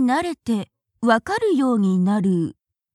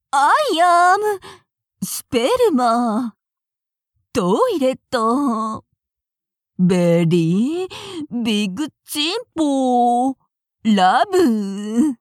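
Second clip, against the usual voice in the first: hammed-up cheerful English. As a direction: throw it out boldly like a confident foreigner. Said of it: "もっとなりきって、発音よく、明るく".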